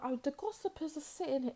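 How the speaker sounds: gossiping voice. Retold or imitated. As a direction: imitate nosy gossipers. Mocking the gossipers.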